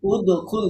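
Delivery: "উদ, খুল" with short, quick vowels and no lengthening; "উদ, খুল" snapped off quickly, nothing drawn out. Shown as a demonstration. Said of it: "দ্রুত বলছি না".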